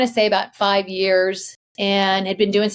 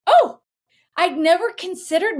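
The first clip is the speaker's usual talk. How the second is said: retold surprise; 8 semitones higher than usual. Retelling her reaction to the palm reader, mock surprise. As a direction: pop it out high, acting taken aback.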